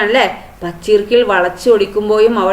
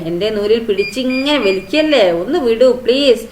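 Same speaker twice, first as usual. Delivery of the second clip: pleading. Acted. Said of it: "അവൻ കെഞ്ചി".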